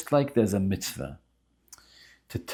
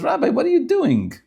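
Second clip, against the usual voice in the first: high, loud exasperated outburst; upset; 6 dB louder than usual. Retold or imitated. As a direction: act out a rich man losing patience. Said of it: "The wealthy man gets upset".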